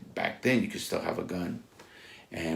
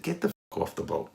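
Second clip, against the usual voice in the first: sharp high furious order; angry yell; 11 semitones higher than usual. Retold or imitated. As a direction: bark him off the boat. Throwing the owner off the boat.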